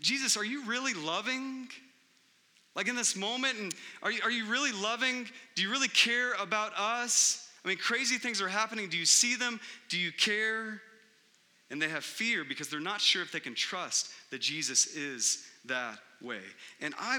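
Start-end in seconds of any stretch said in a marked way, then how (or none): 0.0-10.8 panicked disciples. Retold or imitated.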